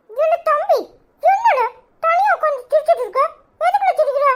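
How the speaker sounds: loud teasing. Acted. Loud teasing question to giggler.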